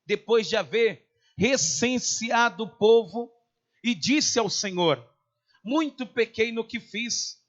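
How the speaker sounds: declaimed Bible reading, measured and emphatic; preacher reading scripture aloud. Acted. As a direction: read the verses out firmly to a congregation. Reads scripture aloud to congregation.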